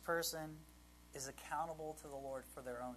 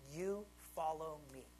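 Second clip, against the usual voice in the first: "you" set apart, then "follow me" measured; deliberate stress on "you"; emphatic YOU. Acted. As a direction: point the word "you" at one person. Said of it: "The emphasis is he's talking to Peter".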